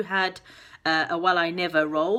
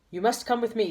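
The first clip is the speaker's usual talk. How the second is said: commanding voice; 5 semitones higher, faster than usual. Acted. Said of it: "said the captain in a commanding voice".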